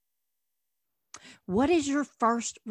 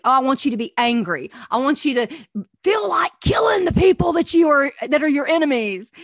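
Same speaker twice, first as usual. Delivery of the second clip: mock angry God; 3 semitones higher, 5 dB louder, faster than usual. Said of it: "No, this is not what God is saying here".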